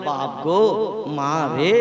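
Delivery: preacher mimicking a stumbling man, mock wail; mock cry of pain. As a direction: play a man who stumbled and cries out for his mother. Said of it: "এই রকম ধরনের আওয়াজ করে".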